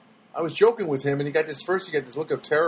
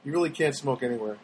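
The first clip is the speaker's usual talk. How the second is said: "really" stressed, lower and softer; quieter aside; 3 semitones lower, 5 dB quieter, faster than usual. Acted. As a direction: mutter it as a wry afterthought. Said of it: "See how I worked that in?".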